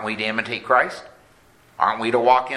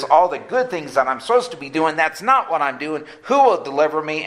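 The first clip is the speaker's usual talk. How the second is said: higher, mildly despairing plea; retold despair; 5 semitones higher than usual. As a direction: voice Paul's despair with raised pitch, not full anguish. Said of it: "He went from despair".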